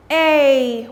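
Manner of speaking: A called out loud; drilled long A. Shown as a demonstration. Teacher calls out the A sound for the class, loud. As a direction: call out the A. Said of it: "what is the action of this sound".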